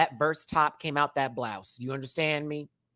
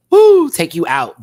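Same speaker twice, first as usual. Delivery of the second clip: mock overwhelmed exclaim; 3 semitones higher, 14 dB louder, slower than usual. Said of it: "I'm like".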